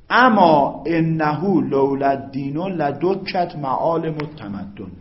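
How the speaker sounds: very slow, loud, drawn-out reading of Arabic; slow Arabic recitation. Acted. Teacher reads the Arabic example aloud for class, slow recitation. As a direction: recite each word loudly and slowly.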